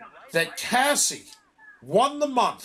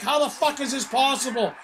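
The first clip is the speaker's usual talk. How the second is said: higher-pitched mock yell; retold screaming; 5 semitones higher than usual. Pointing at the sheet in Wendy's office, retold mock yell. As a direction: act out exasperated protest, not at full volume. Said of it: "I'm screaming in Wendy's office".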